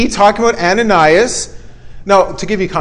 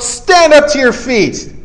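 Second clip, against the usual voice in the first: slow, raised-pitch command; calling out; 4 semitones higher, slower than usual. Acted. Paul to the man with faith to be healed, calling out. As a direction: call out an order, measured and firm. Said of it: "and called out".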